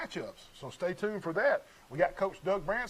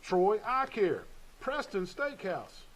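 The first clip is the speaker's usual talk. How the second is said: slow, lifted list read; sponsor roll call; 4 semitones higher, much slower than usual. Real, not acted. Radio host finishing the sponsor list, slow roll-call read. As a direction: announce each business name slowly and distinctly.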